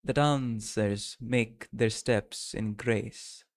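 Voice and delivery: slow, deliberate attempt at a German accent; botched German accent, very slow; failed German accent. Shown as a demonstration. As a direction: try a German accent that comes out Russian, word by word. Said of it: "that is not even German".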